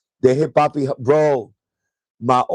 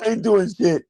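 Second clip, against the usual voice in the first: quoting the dad while laughing; giggling mock of a stoned dad; 6 semitones higher than usual. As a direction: laugh through the quote. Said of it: "He said".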